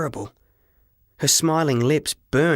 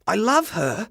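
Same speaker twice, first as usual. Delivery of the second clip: tender confession; 9 semitones higher than usual. A narrator's reading. Boy nearly confesses love.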